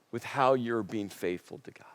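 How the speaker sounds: whispered warning; whispered caution to the congregation. Real, not acted. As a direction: drop to a hushed whisper. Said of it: "whispered caution".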